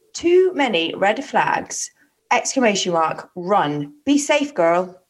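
put-on American accent, drawn out at first. Host reads a stranger's warning note, in an American accent. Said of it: "did that in an American accent".

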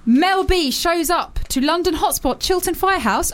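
gossip news read. Acted. Reads gossip item.

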